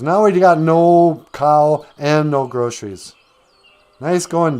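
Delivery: mildly hammed-up motherly rebuke; scolding mom. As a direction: lay into him with sarcasm. Mom scolds Jack for the trade.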